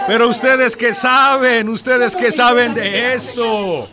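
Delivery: scornful retort. Acted. Minister scolding the villagers who reject the mine, angry and scornful. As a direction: talk down to them with rising anger.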